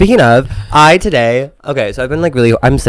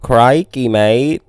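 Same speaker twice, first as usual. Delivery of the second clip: put-on Australian accent; much slower than usual. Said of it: "Is that better?".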